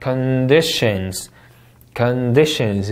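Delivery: slow "Conditions" with stress on DI; two-syllable word. Shown as a demonstration. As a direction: read "Conditions" as two beats. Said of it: "다시 읽어볼까요?". ("Conditions" 둘째 음절 강세)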